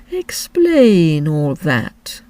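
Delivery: slow, mournful turtle voice; Mock Turtle voice. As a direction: drag it out like a sad old turtle.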